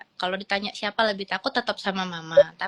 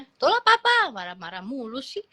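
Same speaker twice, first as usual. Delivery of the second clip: put-on a kid grumbling at his dad to speak nicely; whiny protest; 6 semitones higher than usual. Son complaining about angry Papa. (protes anak kecil, merengek dengan nada jauh lebih tinggi)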